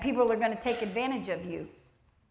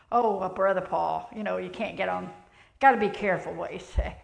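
mock cautioning; 4 semitones lower than usual. Voicing someone cautioning Brother Paul.

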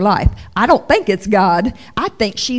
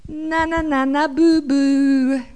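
mocking taunt; 4 semitones higher, slower than usual. Joseph taunting his brothers.

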